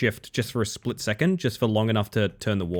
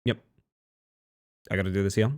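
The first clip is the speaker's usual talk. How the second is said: distracted focus voice; 2 semitones lower, faster than usual. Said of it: "you will hundred percent just get".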